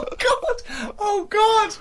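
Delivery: high shrieking laugh through the words; can't stop laughing, almost crying; helpless laughter. Real, not acted. Hearing the bouncer story.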